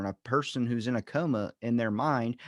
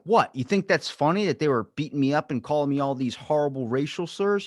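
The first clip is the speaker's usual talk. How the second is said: indignant; 3 semitones higher, 4 dB louder than usual. Retold or imitated. Angry man retells the beating.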